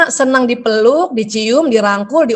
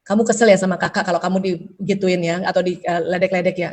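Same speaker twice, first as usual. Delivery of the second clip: lower, soft sympathetic parent; comforting parent; 5 semitones lower, 4 dB quieter than usual. Retold or imitated. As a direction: side with the upset child, gently. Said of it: "kita berpihak sama dia".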